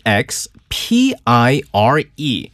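letters E X P I R E one by one, slowly; spelled out slowly. Shown as a demonstration. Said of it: "expire 있거든요".

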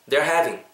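"They're having" linked, clearly presented with a true V; repeat-after-me model. Shown as a demonstration. Teacher leads repetition, "They're having" linked and clear. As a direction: model "They're having" for copying, one-syllable "They're". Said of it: "Repeat after me".

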